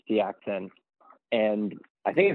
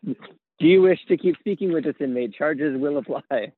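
automated phone voice; 4 semitones higher than usual. Retold or imitated. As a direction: read it like a prison call system prompt. Voicing a jail collect-call message.

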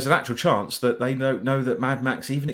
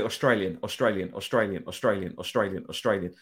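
chanting Australian over and over, fading lower and softer; keyword repeating; 4 semitones lower, 4 dB quieter than usual. Shown as a demonstration. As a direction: spam the word for the algorithm, trailing off. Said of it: "they might pick up and index it".

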